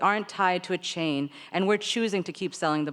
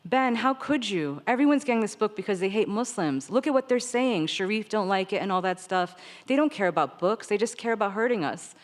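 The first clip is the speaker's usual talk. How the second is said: higher, indignant outburst; venting at Ben; 3 semitones higher than usual. Retold or imitated. To Ben, furious about the book, an indignant outburst. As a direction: let the hurt and anger spill out at Ben. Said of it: "I started venting immediately".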